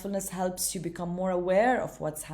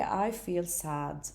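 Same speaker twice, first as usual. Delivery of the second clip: slow observing; 3 dB quieter, much slower than usual. Shown as a demonstration.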